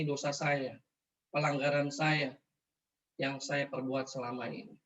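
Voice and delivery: subdued, halting plea with long pauses; gently re-enacted prayer for mercy; retold inward prayer. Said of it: "saya berdoa dalam hati saya".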